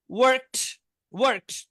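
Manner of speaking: ওয়ার্কড pronounced "warkt"; final t sound. Shown as a demonstration. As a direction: end ওয়ার্কড on t instead of d. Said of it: "টি উচ্চারণ হবে".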